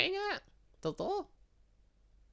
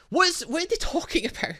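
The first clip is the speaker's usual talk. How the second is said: baffled squeak; 12 semitones higher than usual. Real, not acted. Baffled by game lore.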